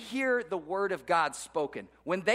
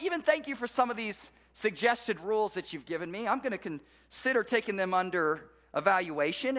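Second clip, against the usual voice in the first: smug prayer; 5 semitones higher than usual. Retold or imitated. A self-reliant believer thanking Jesus, smugly and breezily. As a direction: pray like someone who thinks the rules are optional. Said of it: "it sounds something like this".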